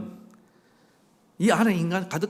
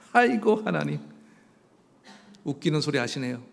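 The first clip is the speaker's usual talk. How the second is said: mild scoffing disbelief. Acted. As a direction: scoff at an absurd promise, then drop back. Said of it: "그런데 어이가 없죠".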